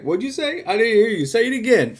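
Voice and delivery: high, mocking gangster taunt.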